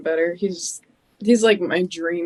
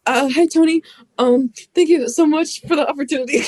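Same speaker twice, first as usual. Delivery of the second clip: nervous, higher and louder gush of thanks; flustered thanks; 7 semitones higher, 5 dB louder than usual. Retold or imitated. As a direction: stammer out thanks to the boss, all flustered. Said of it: "flustered of just having a match".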